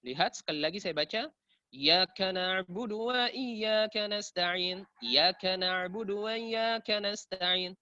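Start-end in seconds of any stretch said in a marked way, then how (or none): 1.7-7.7 "Iyyaka" clipped to "yaka"; rushed, letters dropped. Shown as a demonstration. Teacher repeats the common mistake, rushed with letters dropped. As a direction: chant it running "wa iyyaka" together as "wayyaka". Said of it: "Karena terlalu terburu-buru, dia kurangi beberapa huruf".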